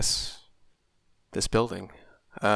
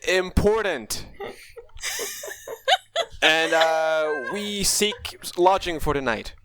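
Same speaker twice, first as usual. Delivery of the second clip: formal knight voice; 6 semitones higher, slower than usual. Acted. Knight requests lodging formally.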